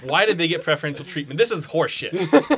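hammed-up complaint, laughing; a playful fake protest; mock outrage.

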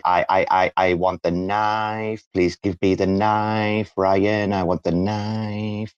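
slow, hushed movie-villain quote; lightly voiced creepy villain demanding the knife; Golden Child villain impression. Quoting the film to Ryan, slow hushed villain voice. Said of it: "Have you seen The Golden Child with, uh, Eddie Murphy?".

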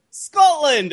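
high-pitched put-on Scottish accent. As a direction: announce it as a fake Scot. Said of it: "one more time with the Scottish accent".

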